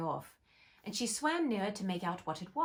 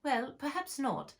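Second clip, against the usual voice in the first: soothing; 6 semitones higher, slower than usual. Acted. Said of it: "said Alice in a soothing tone".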